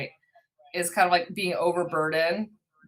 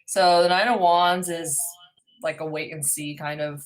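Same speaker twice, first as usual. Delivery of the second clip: big hall echo. Real, not acted. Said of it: "Sorry, I'm echoing".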